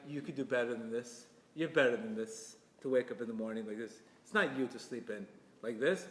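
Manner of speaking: gentle, encouraging nudge. Shown as a demonstration. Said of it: "The way you say it ... with encouragement".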